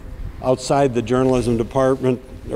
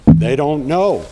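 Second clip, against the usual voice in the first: louder and slower, landing the point; emphatic; 2 semitones higher, 5 dB louder, slower than usual. Real, not acted. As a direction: hit "They don't know" hard and slow. Rally speech, emphatic point.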